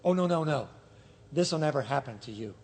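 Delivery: low, soft refusal trailing down; hushed protest. Acted. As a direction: protest it under your voice. Peter protests to Jesus.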